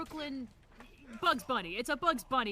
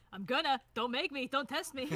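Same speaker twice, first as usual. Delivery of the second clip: put-on Brooklyn accent; 2 semitones higher than usual. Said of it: "Brooklyn Samurai content".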